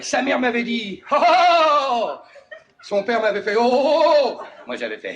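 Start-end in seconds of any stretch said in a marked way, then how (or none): 1.1-2.1 long, high "oh"; raised, stretched-out exclamation; mock dismayed wail. Mother-in-law's reaction, acted. 3.6-4.4 long, high "oh"; raised, stretched-out exclamation; mock exclamation. Father-in-law's reaction, acted.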